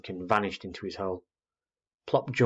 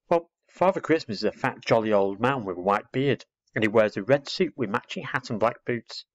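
put-on explaining little girl; 2 semitones higher than usual.

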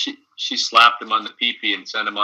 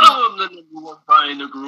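mock Jax boast; 8 semitones higher, 5 dB louder than usual. Mocking Jax's line.

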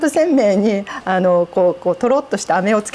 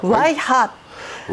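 very slow ワイハー, each sound stretched; drawn-out ワイハー; much slower than usual. Shown as a demonstration. The guest slowly repeating the Tsugaru exclamation for the host. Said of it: "驚いた時に言う言葉".

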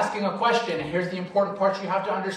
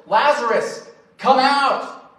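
raised voice calling Lazarus, lightly done; a touch of a loud cry; 6 semitones higher, 5 dB louder, slower than usual. A narrator's reading. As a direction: call out with a hint of command. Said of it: "he cried out with a loud voice".

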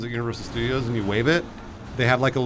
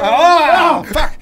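sudden shouted curse, much higher; loud outburst; 9 dB louder than usual. Real, not acted. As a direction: blurt it out in shock. Sudden reaction to game event.

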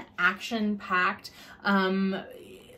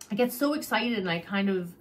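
talking too fast; faster than usual. Real, not acted. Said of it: "'cause I'm talking too fast".

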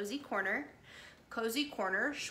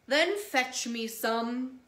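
whale voice; 5 dB louder, slower than usual. Acted. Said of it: "said the whale".

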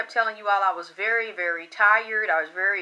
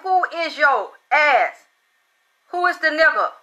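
possessed voice; 4 semitones higher, 4 dB louder than usual. Retold or imitated. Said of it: "a big nigga inside of me talking like this".

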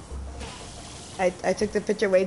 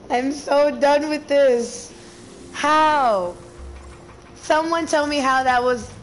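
raging gamer; 5 semitones higher, slower than usual. Real, not acted. Continued rage at game.

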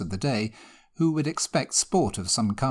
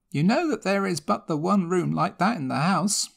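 put-on high, anxious old servant voice; housekeeper; 7 semitones higher than usual. A narrator's reading. Housekeeper pleading with Sir Richard, high and anxious servant voice. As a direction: voice the fretful housekeeper, pitched high. Housekeeper answering her master.

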